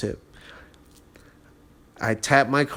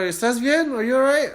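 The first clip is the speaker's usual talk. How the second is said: concerned worker voice; 12 semitones higher than usual. Retold or imitated. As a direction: voice the worried worker. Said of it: "he's like".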